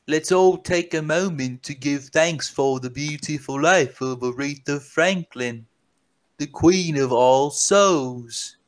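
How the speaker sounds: reading the tweet as the musician himself, slowing on the last words; lightly put-on voice of the famous musician, unhurried at the end; a singer's voice. Reading the singer's tweet to the podcast listeners, in his put-on voice. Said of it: "This is the walrus that's talking here".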